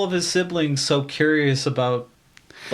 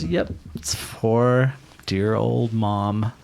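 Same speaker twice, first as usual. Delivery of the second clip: sly bluff; 5 semitones lower, much slower than usual. Acted. Player voices Theron's sly bluff.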